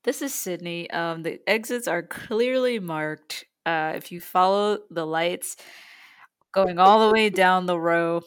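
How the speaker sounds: lightly voiced flight attendant; pointing out the exits calmly. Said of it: "good job. I think the voice was there".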